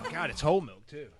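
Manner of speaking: laughing. Real, not acted. Relief at milk after hot wing.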